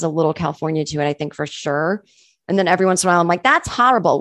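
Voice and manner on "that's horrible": "That's horrible" with a quick New York twang, a bit higher; New York accent. Retold or imitated. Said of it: "which is, like, a New York word".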